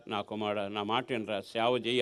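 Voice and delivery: soft, faint voice of a dying father; barely above a breath, pleading gently; dying father's plea. Retold or imitated. చావు బతుకులో ఉన్న నాన్న మాట. (మరణశయ్యపై తండ్రి మెల్లని వేడుకోలు)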